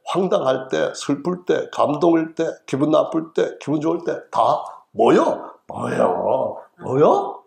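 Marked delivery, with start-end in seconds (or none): 4.9-7.4 cycle 뭐요 through surprise, annoyance and joy; one word, many moods. Retold or imitated. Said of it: "놀랐을 때, 짜증날 때, 무서울 때".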